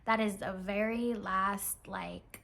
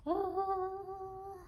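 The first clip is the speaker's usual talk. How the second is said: long high coo; drawn-out high "oh" of delight; 10 semitones higher than usual. Real, not acted. Vlogger admiring her new kit, high coo.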